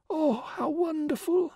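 very high, breathless wonder; awed whisper. A narrator's reading. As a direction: whisper it in rapture. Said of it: "she whispered at last".

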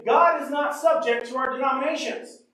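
full-force sermon cry; preaching shout. Real, not acted. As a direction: proclaim it to the back row. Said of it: "refrain at full force".

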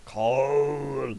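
coal in a mock German accent. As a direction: say it like a deadpan German. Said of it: "What's with the dead German accent?".

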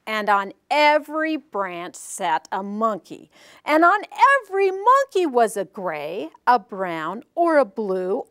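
deliberate, emphatic storybook telling; story narration. Acted. Teacher reveals monkeys wearing the peddler's caps, storytelling voice. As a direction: build the reveal phrase by phrase. Tells picture-book story to audience.

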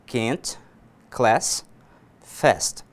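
American flat A, can't as /ket/, class as /klɛs/, fast as /fɛst/; American English, can't, class and fast all with the front A like in cat; American pronunciation. Shown as a demonstration. Teacher demonstrating American A to Brazilian students, flat front vowel. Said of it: "americana, né, dos Estados Unidos".

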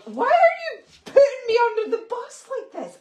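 wounded protest, hammed-up; mock whine. Husband protests wife's story, high hammed-up whine.

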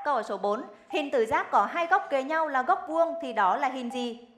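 crisp quiz host read; game show host. Acted. Rapid-fire quiz round.

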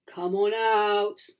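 loud, slow, menacing growl; growling villain. A narrator's reading. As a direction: draw out the threat. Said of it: "growls a voice".

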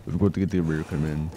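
low, soft, badly faked Australian accent; attempted Australian accent. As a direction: try to mimic an Australian soldier. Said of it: "I can't do an Australian accent".

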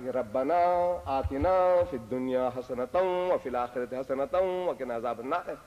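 measured, sustained recital of a prayer; prayer recitation. Retold or imitated. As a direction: recite it evenly, stretching the long vowels. Reciting a remembered Arabic prayer.

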